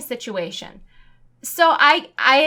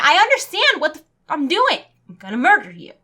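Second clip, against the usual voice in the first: exasperated outburst; 4 semitones higher, 4 dB louder than usual. Real, not acted. Furious at cancel rule.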